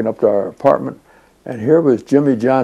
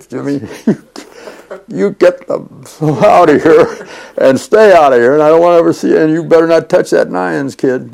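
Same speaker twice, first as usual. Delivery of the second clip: imagined boss yelling; 4 semitones higher, 4 dB louder than usual. Retold or imitated. Boss throws Jimmy out, imagined.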